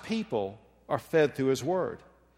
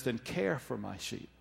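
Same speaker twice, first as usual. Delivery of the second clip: quiet instruction; 3 semitones lower, 9 dB quieter than usual. Acted. Jesus instructs again.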